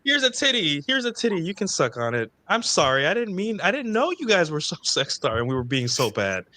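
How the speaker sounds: high, mocking girly voice; high mock girl voice. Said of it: "girls are gonna be like".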